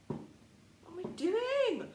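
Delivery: drawn out. Real, not acted. Self-mocking high drawn question.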